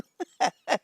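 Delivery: long helpless laugh; cracking up. Real, not acted. Host cracking herself up over Old Spice, laughing. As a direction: laugh hard at your own joke. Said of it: "I'm cracking myself up".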